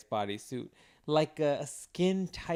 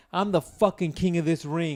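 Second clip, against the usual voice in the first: lightly acted fighter's boast; a touch of mock victory crowing. Disqualified fighter claiming the ring, lightly acted boast. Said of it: "and be like".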